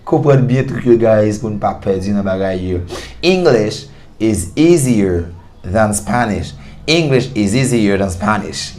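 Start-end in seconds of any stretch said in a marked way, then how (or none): 3.2-8.8 slow, careful American English; American English model. Shown as a demonstration. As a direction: model it like a native speaker. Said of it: "Un bon American English".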